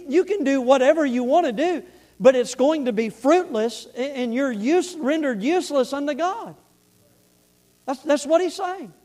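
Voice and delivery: impassioned preaching. Real, not acted. Preaches with rising force.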